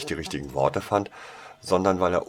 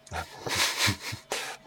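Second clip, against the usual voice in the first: giggle; 3 semitones higher than usual. A narrator's reading. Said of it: "kicherte Winona".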